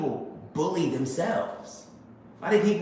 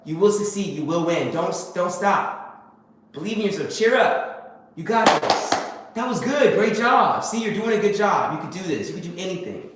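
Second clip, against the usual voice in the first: encouraging self-talk; 3 semitones higher than usual. Retold or imitated. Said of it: "Or are you gonna be like".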